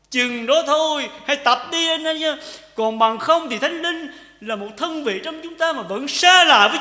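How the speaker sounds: high, loud preaching push; full-force sermon voice; fervent preaching. Acted. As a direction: drive the point home to the church.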